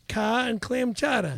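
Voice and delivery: r-dropping Boston accent; broad vowels in a Boston accent. Shown as a demonstration. Proving he said the key words, Boston accent. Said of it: "we gotta get a Boston accent".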